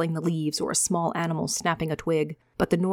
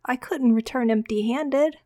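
put-on much higher, slow pleading child; scared boy; 7 semitones higher than usual. Boy pleading with Micah, high and slow. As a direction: beg like a terrified ten-year-old.

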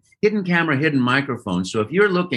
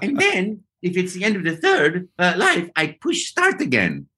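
Mario voice; 5 semitones higher than usual. Retold or imitated. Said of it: "And I said".

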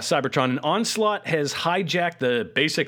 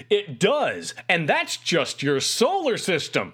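lofty robot scientist voice; 4 semitones higher, slower than usual. Retold or imitated. Perceptor quoted from the cartoon.

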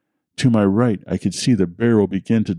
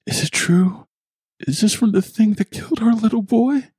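high, tearful pleading question. Acted. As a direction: ask it through tears. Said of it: "tears choking her words".

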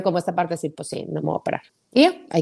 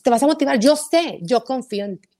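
put-on talking down to a teen; 5 semitones higher than usual. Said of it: "como si tuviera quince años".

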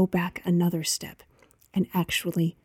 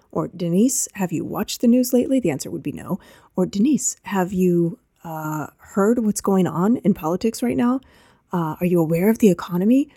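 skeptical objection. Retold or imitated. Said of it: "Now you might be thinking".

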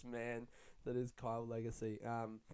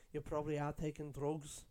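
imitating Scouse grandma; 2 semitones higher than usual. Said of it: "the way she said drugs".

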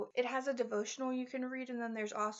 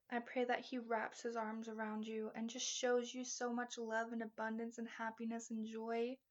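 soft, steady closing prayer; 3 dB quieter than usual. Acted. A host praying over her listeners, soft and steady. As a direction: pray over the listener gently.

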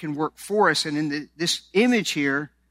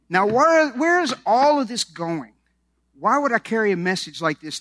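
raised pitch, booming rhetorical question; loud preaching; 5 semitones higher, 4 dB louder than usual. Real, not acted. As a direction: call it out to the congregation.

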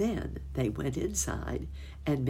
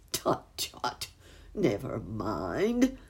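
kindly; 3 semitones lower, much slower than usual. Acted. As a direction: gently wave her worry away. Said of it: "broke in Uncle Wiggily kindly".

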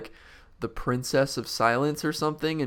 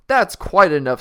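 higher, louder curt cut-off; king snapping; 6 semitones higher, 11 dB louder than usual. Acted. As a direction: shut Milo down mid-speech. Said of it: "snapped the king".

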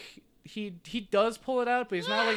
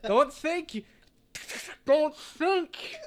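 menacing thug; 9 semitones higher, 5 dB louder, slower than usual. Acted. GM voices threatening extortionist.

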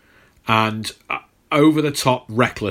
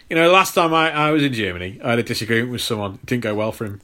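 understated Cap; 2 semitones lower, much faster than usual. Retold or imitated. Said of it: "He's just like".

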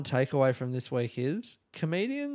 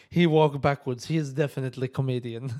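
a louder, amused take of the lady's verdict; quoting the shop lady; 5 dB louder than usual. Retold or imitated. Quoting the sandal lady's verdict, amused and loud. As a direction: announce it like a punchline. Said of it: "She's like".

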